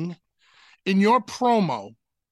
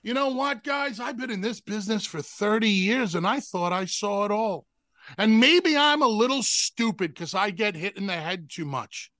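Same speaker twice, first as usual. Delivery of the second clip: demo wrestling promo. Shown as a demonstration. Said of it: "That's how I would have delivered the promo".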